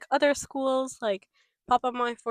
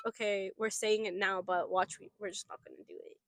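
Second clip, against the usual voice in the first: hushed aside; 3 semitones lower, 6 dB quieter than usual. Retold or imitated. Doubting inner voice, retold.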